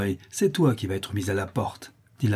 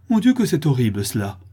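raised, appalled exclamation; horrified; 5 semitones higher, 6 dB louder than usual. A narrator's reading. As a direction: lament the horror of it. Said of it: "se recula avec dégoût et horreur". (exclamation horrifiée)

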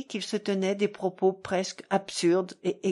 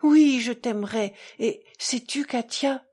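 fervent, halting declaration; impassioned, broken into short pieces; halting word by word; 3 semitones higher, 5 dB louder than usual. A narrator's reading. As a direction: raise the voice, pausing between phrases. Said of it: "dit Mitya en s'arrêtant à chaque mot".

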